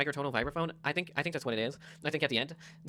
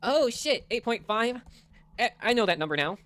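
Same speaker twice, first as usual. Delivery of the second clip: mock shocked viewer. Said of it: "You're like".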